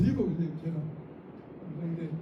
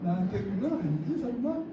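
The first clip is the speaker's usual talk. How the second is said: light joking check-in. Shown as a demonstration. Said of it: "이렇게 시작".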